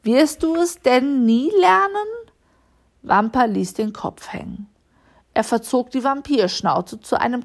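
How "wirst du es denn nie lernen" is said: higher, exasperated question; scolding. A narrator's reading. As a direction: scold with a reproachful rise. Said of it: "schimpfte Frau Lissi". (vorwurfsvoll schimpfend)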